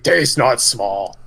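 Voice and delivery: slow, dopey ogre voice. Retold or imitated. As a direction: drag it out like a dim ogre. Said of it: "some guy with an ogre voice do it".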